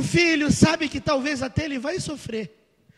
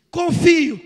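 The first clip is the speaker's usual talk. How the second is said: firm reply; 3 semitones higher, 7 dB louder than usual. Retold or imitated. Father answers the boy.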